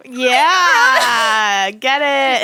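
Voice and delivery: high laughing yeah; laughing hard. Real, not acted. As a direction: burst out laughing mid-word. Laughing at a funny story.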